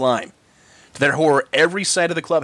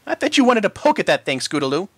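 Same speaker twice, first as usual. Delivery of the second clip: teasing filly voice; 4 semitones higher than usual. Acted. Sweetie Belle teasing.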